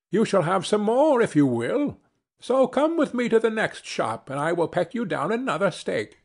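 lightly acted sparrow coaxing a friend along; helpful sparrow.

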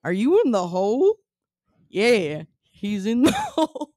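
hammed-up Southern accent, stretching the vowels; attempted Southern accent. Shown as a demonstration. Host doing an accent for a co-host to guess, broad Southern accent. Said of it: "was a Southern accent".

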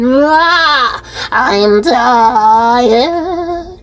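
tired groan. Acted. Fed up with cockroaches.

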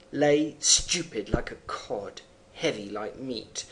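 measured poem recitation; poem reading. Acted. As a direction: read "lay stupid like a cod" in a steady reading voice. Reads poem line.

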